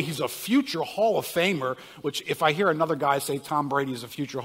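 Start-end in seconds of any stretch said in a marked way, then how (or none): 0.0-1.8 a hint of a hyped TV analyst; mock color analyst hype. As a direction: sell "Hall of Famer" like a broadcaster. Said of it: "there's gonna be a color commentator".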